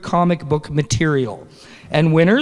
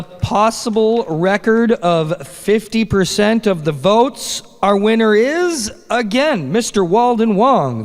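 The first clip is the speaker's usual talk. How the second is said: winner reveal; 6 semitones higher than usual. Real, not acted. Announcing the second winner.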